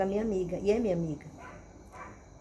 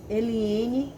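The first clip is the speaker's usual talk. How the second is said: firm, louder name call; authoritative father; 6 dB louder than usual. Retold or imitated. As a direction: lightly imitate a father summoning his child. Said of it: "com essa mesma autoridade".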